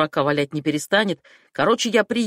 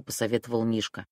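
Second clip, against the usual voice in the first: ordinary delivery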